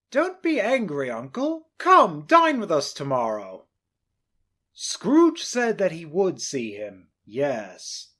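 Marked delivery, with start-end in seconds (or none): 0.1-3.7 higher, friendly inviting voice; nephew, coaxing. Acted. Nephew inviting his uncle to dinner, high and friendly. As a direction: coax the old man kindly.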